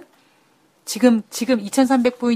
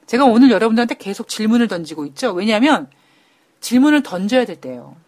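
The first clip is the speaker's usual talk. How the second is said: hoarse voice. Real, not acted. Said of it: "제가 지금 살짝 목이 쉬었잖아요".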